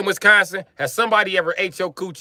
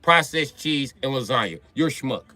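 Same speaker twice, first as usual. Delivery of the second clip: mock Italian accent, exasperated scolding; angry Italian. Comic's Italian scolds the lasagna maker in mock Italian accent. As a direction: play the offended Italian berating the cook. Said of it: "Italians be mad about it".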